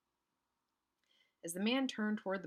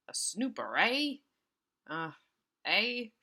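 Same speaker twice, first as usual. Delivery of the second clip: a hint of a gangster sneer, sliding up; lightly voiced gangster trying for the tough sound; 6 semitones higher, 7 dB louder, slower than usual. Shown as a demonstration. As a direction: reader retrying the villain's line as a gangster. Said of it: "supposed to sound like a gangster".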